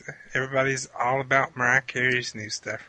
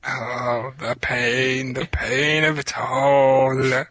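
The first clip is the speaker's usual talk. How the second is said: mock anguish; 5 dB louder, much slower than usual.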